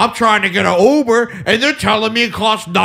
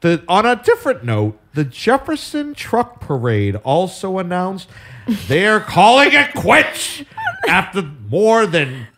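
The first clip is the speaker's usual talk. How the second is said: news read. Acted. Anchor announcing the Jefferson Truck Parade quitting, grave newscaster read. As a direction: deliver it like sad breaking news.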